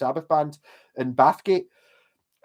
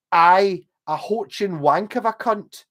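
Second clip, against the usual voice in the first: mock insult reading; 3 semitones higher, 5 dB louder, slower than usual. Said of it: "His, his text was".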